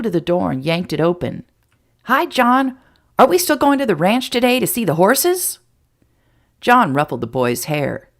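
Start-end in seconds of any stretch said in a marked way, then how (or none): 2.0-5.6 put-on high, loud excited kid; can hardly wait to go; boy asking about the horses; eager boy. A narrator's reading. Eager boy greets John.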